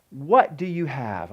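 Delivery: slow, measured "What do you have"; word-by-word emphasis. Shown as a demonstration. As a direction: give each word of "What do you have" its own weight. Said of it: "I'm gonna take e-, each word".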